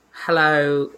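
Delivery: half-hearted attempt at an Australian accent; bad Australian accent. Co-host imitating the contestant's greeting, poor Australian accent. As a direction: lightly mimic an Australian hello. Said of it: "I can't do an Australian accent".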